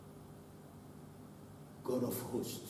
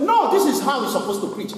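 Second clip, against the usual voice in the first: louder, laughing know-it-all tone; mocking critic; 5 semitones higher, 4 dB louder than usual. Preacher mocks churchgoers critiquing a preacher, smug and laughing. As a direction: mimic a smug critic of the pastor. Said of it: "But they will say".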